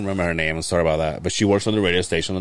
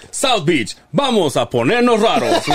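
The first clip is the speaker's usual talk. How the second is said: high, loud promoter shout with laughter; brash fight promoter hype; 10 semitones higher, 4 dB louder than usual. Retold or imitated. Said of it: "a promoter voice".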